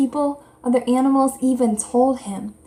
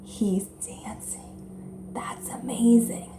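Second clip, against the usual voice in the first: whisper; 9 dB quieter, much slower than usual. Retold or imitated. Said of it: "So they're like".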